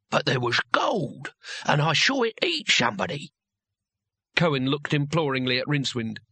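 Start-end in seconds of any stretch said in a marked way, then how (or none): 0.1-3.3 put-on toothless old fighter, slushy esses; slurring old warrior, indignant. A narrator's reading.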